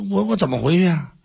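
anxious, tripping pleading; flustered protest. Acted. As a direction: stumble over the words like a cornered envoy. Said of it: "冯丑富说".

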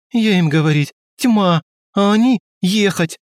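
high, loud, indignant broken English; bitter outburst. A narrator's reading. Riita complains that nobody listened, high and loud. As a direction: complain loudly, still bitter. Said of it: "с горечью воскликнул Риита".

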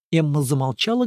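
plain reading voice

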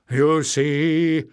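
hissed bitter rebuke; hissing. A narrator's reading. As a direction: hiss it with contempt. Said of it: "Warren hissed".

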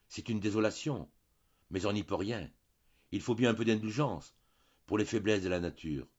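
lightly voiced priest shrugging it off; priest resigned. Priest excusing the maid to the baroness, mildly resigned.

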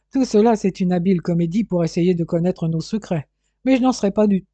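loud scoff out of a laugh; scoffing disbelief. Acted. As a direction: scoff at the trick, refusing to be fooled. Father scoffs at the supposed trick. (incrédulité moqueuse et vive)

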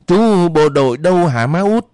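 put-on high, rising child's question; eager little child. A narrator's reading. Child to mother in the dark, eager high question.

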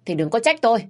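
father-in-law warning his wife to stop; stern warning. Acted. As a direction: warn her firmly, last word.

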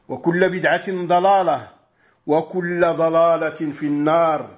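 rapid, rhythmic Arabic recitation of the opening formula; formulaic sermon opening. Acted. Preacher opens the lesson for the brothers, reciting it fast and rhythmically. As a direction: rattle off the khutbah opening like a practiced preacher.

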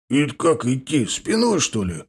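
bewildered, lilting question; puzzled surprise. A narrator's reading. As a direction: ask it baffled. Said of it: "удивился Серый".

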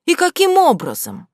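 high, loud demanding question; barely holding in rage; a girl confronting her friends angrily; loud, held-back fury. Acted. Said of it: "еле сдерживая вспыхнувшую ярость".

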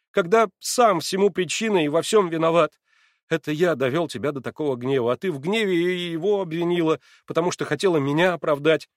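put-on agitated young man. A narrator's reading. Alyosha blaming himself to Natasha, heated. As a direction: pour out the guilt in a rush.

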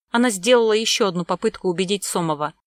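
ordinary delivery, nothing marked

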